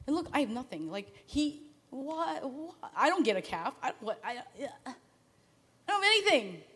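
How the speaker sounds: a wounded, half-laughing protest; indignant whining. Retold or imitated. Older brother complaining to his dad, indignant and sputtering. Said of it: "he squandered all this".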